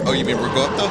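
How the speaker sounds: "ricotta" said as "ree-goh-ta", hard g; New York deli pronunciation. Retold or imitated. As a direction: imitate a deli guy saying "ricotta" as "rigotta". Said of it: "fancy names for our, all of our".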